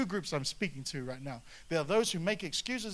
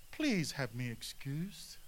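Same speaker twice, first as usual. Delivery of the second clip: lame excuse; 4 semitones lower, 4 dB quieter, slower than usual. Acted. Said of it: "The first said to him".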